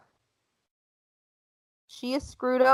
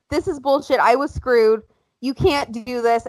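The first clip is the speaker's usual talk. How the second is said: mild mock protest. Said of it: "she will be like".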